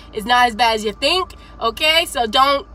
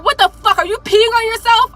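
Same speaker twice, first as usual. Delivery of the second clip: higher-pitched mock outrage; incredulous drill sergeant; 8 semitones higher, 3 dB louder than usual. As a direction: imitate a sergeant demanding an answer. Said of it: "And he's just like".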